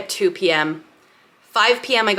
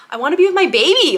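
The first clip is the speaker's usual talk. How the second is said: mock upset; 8 semitones higher, 4 dB louder, faster than usual. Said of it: "I was really upset".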